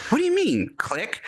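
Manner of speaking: high, baffled "what do you mean"; mock bewildered victim; confused victim. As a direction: play the puzzled mark who hangs up. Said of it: "And you're like".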